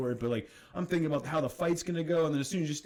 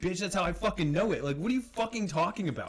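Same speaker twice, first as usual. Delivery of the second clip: retold comeback; 5 semitones higher than usual. His retold heated comeback.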